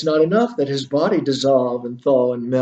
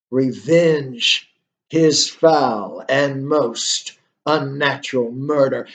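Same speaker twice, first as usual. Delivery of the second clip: slower, drawn-out ghostly command, lightly voiced; ghost's command again; much slower than usual. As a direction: stretch each word like the ghost demanding revenge. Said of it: "And the ghost says".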